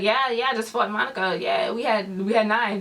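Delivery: offhand retold reply, like it was nothing; nonchalant. Katrina brushes off her knife fight, nonchalant. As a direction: imitate shrugging off a fight. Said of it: "acting like it was nothing".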